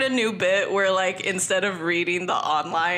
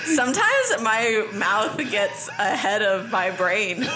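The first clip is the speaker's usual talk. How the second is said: slow, accidental Cajun accent through laughter; slower than usual. Real, not acted. Reader excusing her slip to co-hosts, Cajun accent. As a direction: let a slow Cajun twang slip out, amused. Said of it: "That's a good Cajun accent".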